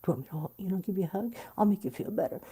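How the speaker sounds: soft, breathy mock concern, a touch sarcastic; mildly sarcastic imitation. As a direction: lightly mimic well-meaning people fussing over you. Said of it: "with a bit of a sarcasticness".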